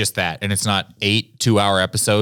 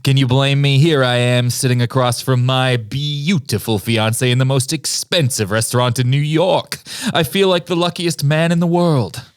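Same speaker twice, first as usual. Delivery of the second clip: put-on old Hollywood leading man; 4 semitones higher, 4 dB louder than usual. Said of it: "You're Henry".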